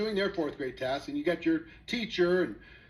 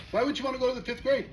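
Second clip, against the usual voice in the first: baffled; 6 semitones higher, faster than usual. Retold or imitated. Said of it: "You're like, "Huh?".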